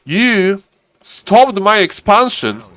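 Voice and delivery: acting out a frustrated player; hammed-up aggrieved complaint; mock frustration. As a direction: play at being fed up, stretching the opening words.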